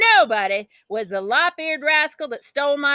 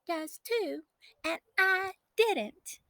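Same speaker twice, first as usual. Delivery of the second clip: giggly; 9 semitones higher, 10 dB quieter, slower than usual. A narrator's reading. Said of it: "Kelsey Ann giggled".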